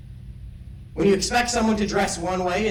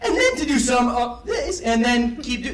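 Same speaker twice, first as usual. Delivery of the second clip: silly high voice; 4 semitones higher than usual. Shown as a demonstration. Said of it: "that's weird".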